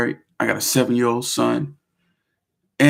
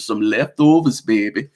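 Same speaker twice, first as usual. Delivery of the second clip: fake New Orleans accent. Teasing viewers, a playful fake New Orleans accent. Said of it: "that's a fake accent".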